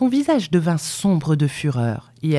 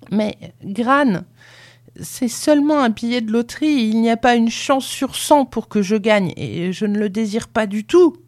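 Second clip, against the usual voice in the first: put-on higher-pitched boyish pleading; pleading protest; 7 semitones higher than usual. A narrator's reading. Boy explains the lottery ticket to Gran, pleading. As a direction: excuse yourself anxiously, pitch raised.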